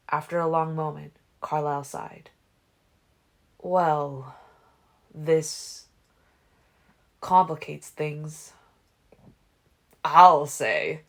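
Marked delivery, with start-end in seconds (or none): 3.6-8.5 put-on slow, measured older man; Carlisle's voice. A narrator's reading. Carlisle sighs. 10.0-11.0 loud amused man's voice; near laughter. A narrator's reading. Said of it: "still close to laughter".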